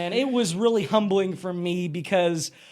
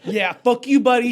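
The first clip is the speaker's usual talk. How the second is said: mock tough guy; 4 semitones higher, 6 dB louder than usual. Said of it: "being like".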